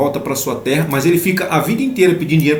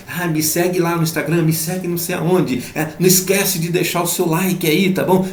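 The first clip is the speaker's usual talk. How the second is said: higher-pitched mock plea for followers; imploring followers; 5 semitones higher than usual. Preacher mimicking people begging for followers, higher mock pleading. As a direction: imitate a pushy online beggar for likes. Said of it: "imploram por seguidores".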